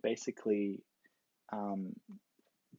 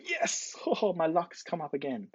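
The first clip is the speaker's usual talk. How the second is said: higher, laughing mock delight; gleeful celebration; 6 semitones higher than usual. Faker hearing side B yelled, playful glee.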